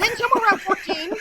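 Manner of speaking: high, loud, laughing aside. Real, not acted. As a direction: giggle through the words. Embarrassed laughing at teen memory.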